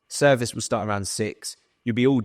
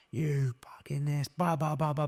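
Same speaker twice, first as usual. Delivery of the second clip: mock angry sous chef; 5 semitones higher, 7 dB quieter than usual. Sous chef berating the young cook, mocked in a higher voice. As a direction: parody the chef's telling-off as meaningless noise.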